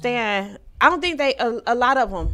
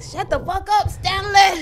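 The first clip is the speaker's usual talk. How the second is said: high laughing shout; high, loud mock outburst; 10 semitones higher, 4 dB louder, slower than usual. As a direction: yell it through laughter. Retold outburst at TV.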